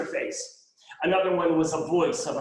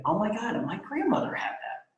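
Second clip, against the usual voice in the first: startled recognition; 5 semitones higher than usual. Retold or imitated. Quoted listener's startled recognition.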